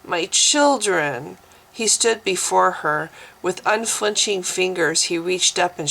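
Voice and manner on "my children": moaned softly. Acted. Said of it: "she moaned softly".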